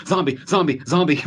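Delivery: high frantic zombie warnings; mock cop shouting zombie. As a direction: yell zombie over and over. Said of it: "just like".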